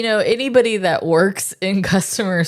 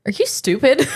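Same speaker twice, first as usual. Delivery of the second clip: laughing mock retort; 7 semitones higher than usual. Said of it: "sometimes I just wanna be like".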